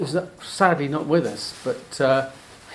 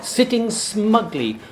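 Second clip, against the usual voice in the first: a game, half-hearted stab at a Scottish burr; attempted Scottish accent; 3 dB louder than usual. Reciting a mouse poem to friends in a light Scottish accent. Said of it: "I can't do the Robbie Burns accent, but I'm gonna give it a go".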